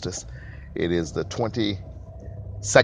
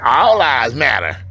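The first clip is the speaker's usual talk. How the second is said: mocking quote; 5 semitones higher, 10 dB louder, slower than usual. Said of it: "these knuckleheads who run around and say".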